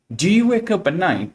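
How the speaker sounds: slow question, high arch after "Do"; entonação de pergunta. Shown as a demonstration. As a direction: lift "Do you wake up" high, drop into "nine". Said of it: "minha entonação muda". (pergunta em inglês, devagar, com entonação marcada)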